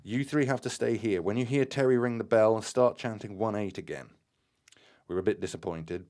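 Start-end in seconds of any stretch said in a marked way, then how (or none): 0.0-4.1 loud, higher urgent instructions; urgent cry. A narrator's reading. Graham urgently ordering the group, loud. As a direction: rush the orders out loudly. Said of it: "so Graham current suddenly cried".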